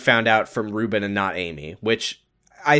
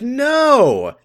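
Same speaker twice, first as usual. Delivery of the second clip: mock outburst; 10 semitones higher, 5 dB louder than usual. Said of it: "And she's like".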